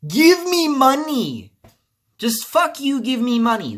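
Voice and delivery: hammed-up corporate greed voice; mocking greedy Sony. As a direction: mimic a greedy corporation demanding cash. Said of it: "they're like Sony".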